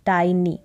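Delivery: "टाइनी" as tie-nee, a lone model word; correct pronunciation. Shown as a demonstration. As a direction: model "टाइनी" with an eye vowel. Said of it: "इसका उच्चारण होगा". (टाइनी, आइ के साथ)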